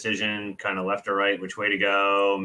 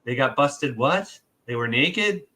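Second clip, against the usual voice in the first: higher, eager questions; eager gossip; 5 semitones higher, 3 dB louder than usual. Retold or imitated. Nosy friend pressing for Saturday night details, eagerly. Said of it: "Or somebody".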